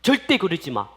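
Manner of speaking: stern rebuke building to a shout; Jesus. Acted. Jesus orders disciples to let children come, angry rebuke. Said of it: "예수님이 막 화를 낸 거예요".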